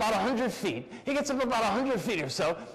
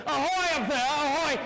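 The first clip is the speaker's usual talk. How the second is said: higher-pitched hail to the deck; hailing call; 5 semitones higher than usual. Acted. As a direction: call up to someone high above. Pirate hails the boat above.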